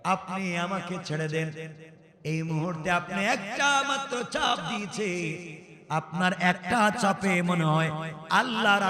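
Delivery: slow chanted retelling of a plea; singsong sermon delivery; melodic preaching. Acted. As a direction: intone it with long drawn-out vowels.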